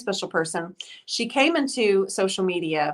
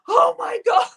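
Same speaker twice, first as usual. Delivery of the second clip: higher and a bit louder mock "Oh my God"; retold exclamation; 13 semitones higher, 6 dB louder than usual. Friend reacting after the traffic scare, hammed-up exclaim. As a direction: toss it out like the relieved friend did.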